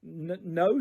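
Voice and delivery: soft, shaky no; trembling. Acted. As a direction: stammer it out nervously. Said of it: "in a trembling voice".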